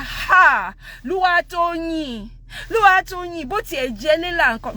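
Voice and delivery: high, dainty imitation of a mother; cutesy, demure mom. Mom calming dad as his whisperer, cutesy and demure. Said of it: "that's basically how she spoke".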